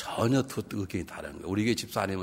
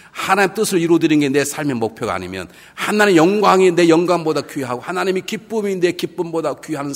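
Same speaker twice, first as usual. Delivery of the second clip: driving, louder sermon delivery; forceful preaching; 5 semitones higher, 8 dB louder than usual. Real, not acted. Preacher warning churchgoers that God must be master, forceful preaching. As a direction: press each condition home to the congregation.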